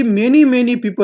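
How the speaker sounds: MANY, MANY PEOPLE said slowly, word by word; stress on each word. Retold or imitated. Counsel Goyal pressing the robot, stressing each of "many, many people". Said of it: "हर word पे stress देकर".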